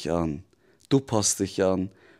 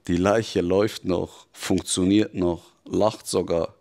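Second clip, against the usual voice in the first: the devil accusing, firm and insistent; a lightly voiced devil pressing the truth on you; intense devil. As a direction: drive each image home like a verdict.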